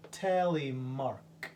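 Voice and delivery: slow repeat. Shown as a demonstration. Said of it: "repeated model word".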